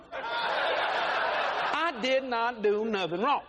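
slow, drawn-out laughing protest; husband drags out his denial, mock innocent. Shown as a demonstration. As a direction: stretch it out like a wronged innocent. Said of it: "slowed mock innocence".

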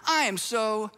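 pat them on the head with the sorry; condescending, syrupy sorry; patronizing pat on the head. Retold or imitated. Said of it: "a little pat on the head, you know, a little side hug".

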